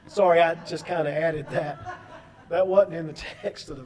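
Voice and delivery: low chuckling aside; amused. Real, not acted. Preacher owning up to his ad-lib, amused. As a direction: apologize through a small laugh.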